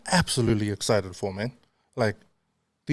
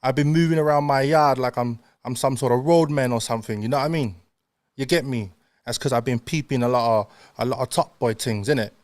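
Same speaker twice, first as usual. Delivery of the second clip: put-on London roadman slang voice; London roadman accent. Shown as a demonstration. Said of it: "walking around the house speaking like that".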